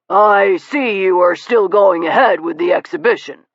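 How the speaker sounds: gentleman's voice. A narrator's reading. Narrator voices Mister Steele.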